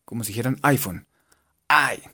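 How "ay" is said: "Ay" like a yelp of pain; burned "ay". Shown as a demonstration. Teacher showing the English i, "Ay" as if burned. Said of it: "como si se quemaran".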